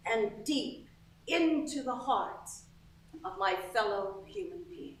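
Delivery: weighty, unhurried verse; solemn poem recital. Acted. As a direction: recite it like a self-serious poet, with pauses. Recites own poem aloud.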